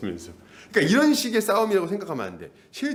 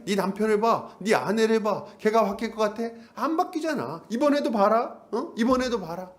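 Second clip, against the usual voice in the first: raised pitch, needling list of failures; accusing devil; 5 semitones higher than usual. Acted. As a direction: press the doubt as a lightly voiced devil. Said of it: "마귀가 참소합니다". (따지듯 참소하는 마귀 말투)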